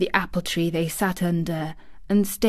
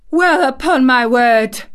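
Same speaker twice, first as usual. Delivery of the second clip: louder, higher astonished Yorkshire housekeeper; 6 semitones higher, 7 dB louder than usual. Acted. Housekeeper overhearing laughter, astonished broad Yorkshire. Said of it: "speaking rather broad Yorkshire herself".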